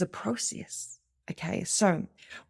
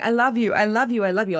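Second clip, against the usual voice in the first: louder and higher, overeager repeated declarations; gushing; 5 semitones higher, 6 dB louder, faster than usual. Pretend. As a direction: pour it on like a sudden flood of affection. Someone suddenly gushing love.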